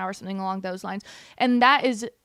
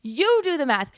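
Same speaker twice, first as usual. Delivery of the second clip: angry retort; 4 semitones higher than usual. Real, not acted. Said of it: "I'm getting angry at her".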